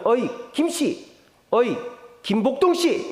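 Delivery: mock-serious hailing; stern formal address. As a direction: call a friend formally, suddenly serious. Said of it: "정색을 하죠".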